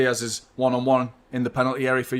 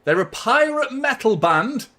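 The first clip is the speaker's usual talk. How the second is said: amused; 9 semitones higher, 4 dB louder than usual. Real, not acted. Laughing at a pirate metal song.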